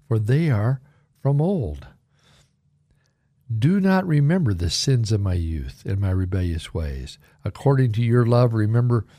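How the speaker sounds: deliberate scripture reading; reverent, unhurried recitation; slow reading. Shown as a demonstration. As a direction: read the Psalm in measured phrases. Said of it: "I'll read it slowly".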